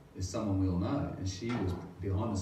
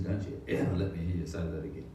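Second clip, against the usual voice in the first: stern scolding; 3 semitones lower than usual. Retold or imitated. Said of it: "scolded me and said".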